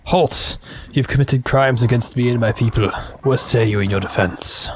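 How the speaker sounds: lightly put-on tribunal voice; mock accuser. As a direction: play at charging someone with crimes. Mock trial of the other player.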